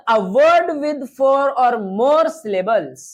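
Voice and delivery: very slow, even definition; slow teacher dictation. Shown as a demonstration. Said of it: "teacher dictates the definition slowly".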